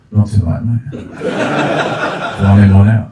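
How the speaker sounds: lightly voiced bouncer, dismissive and low; a hint of a smug doorman turning people away; God as a pub bouncer, lightly mocking; cocky bouncer God. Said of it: "leaning on the pearly gates, like".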